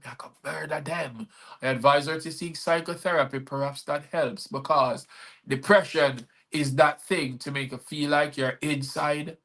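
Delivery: spoken-word poem, rhythmic and deliberate; poem recital. Acted. Poet reciting his poem to his live viewers. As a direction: perform the story poem to the stream.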